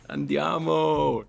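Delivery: high, long-drawn Italian cheer; hyped-up, high-pitched let's go; excited rallying cry. Real, not acted. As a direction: stretch it out like a battle cry. Rallies himself for next test.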